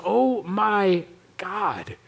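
awed gasp. Retold or imitated. A soul overwhelmed by the view, slow and hushed. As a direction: let it slip out, overwhelmed. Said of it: "something out of you just goes".

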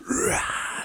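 unpitched raspy "rah"; quick mock metal scream; imitated stage scream. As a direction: imitate a metal roar at half volume. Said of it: "jumping off of balconies and going".

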